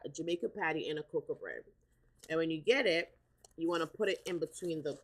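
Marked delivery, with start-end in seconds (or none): 0.0-1.6 fast, run-together "a Jamaican patty and a cocoa bread"; fast counter order, "Jamaican patty" slurred together; quick order. Shown as a demonstration. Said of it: "Say it like that".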